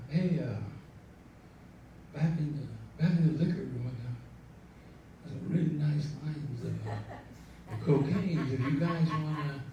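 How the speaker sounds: soft, unhurried, hesitant offer; cool and casual. Retold or imitated. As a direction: imitate a laid-back guy casually offering. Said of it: "Cecil Bain was the coolest cat".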